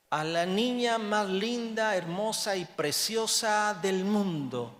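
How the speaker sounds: tearful prayer. Retold or imitated. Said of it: "llorando le dijimos".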